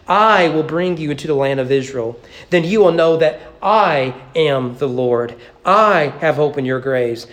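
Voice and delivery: each "I" leaned on at the start of every clause; stress on I. Shown as a demonstration. Preacher stresses every "I" for the congregation. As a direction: press hard on every "I" in the verse list. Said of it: "notice the emphasis on the word "I".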